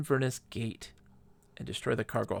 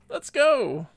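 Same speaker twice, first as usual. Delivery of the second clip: high, loud, real whoop of excitement; excited rallying cry; 12 semitones higher, 8 dB louder than usual. Real, not acted. Player off to shoot some stuff, excited shout. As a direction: call it out to kick off the action.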